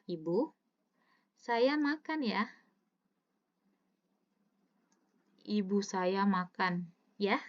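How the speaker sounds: "Ibu saya makan ya" said in one flow, slow; without the comma. Shown as a demonstration. Teacher contrasting the sentence with no comma. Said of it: "Coba bedakan dengan kalimat".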